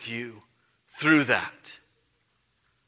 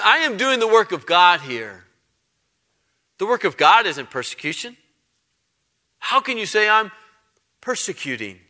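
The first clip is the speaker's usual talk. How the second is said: indignant protest. Retold or imitated. Saul's indignant imagined reply.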